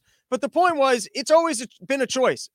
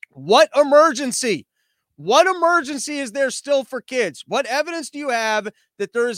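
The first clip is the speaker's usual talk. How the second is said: indignant outburst; 3 semitones higher, 4 dB louder than usual. Real, not acted. Comic ranting at the news, loud indignant question. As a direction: hammer the word emergency in disbelief.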